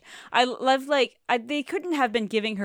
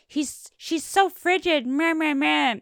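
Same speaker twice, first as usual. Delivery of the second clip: whiny mock impression of a singer; 7 semitones higher, 7 dB louder than usual. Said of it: "He's like".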